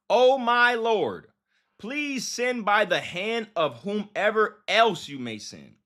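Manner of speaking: slow, drawn-out Bible reading; deliberate reading of a prayerful verse; scripture reading. A narrator's reading. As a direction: stretch out the plea as you read. Reads scripture aloud.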